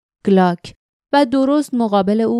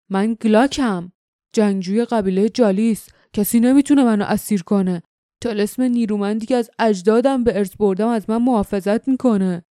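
grumbling. Acted. Glock grumbles proudly to Jinks about his protective charm. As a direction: growl out his warrior's boast. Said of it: "گلاک قرولند کرد".

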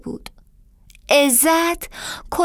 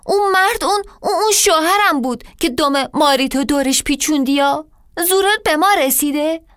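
stammering confrontation; 3 semitones higher, faster than usual. Acted. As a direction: stumble then accuse. Wife confronts snake over husband.

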